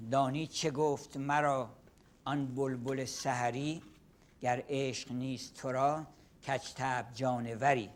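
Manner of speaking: a fast, rhythmic recital of Persian verse; Persian poem recitation. Shown as a demonstration. Lecturer reciting a Saadi poem to the class. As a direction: chant the couplets briskly in Persian. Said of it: "I can recite one example".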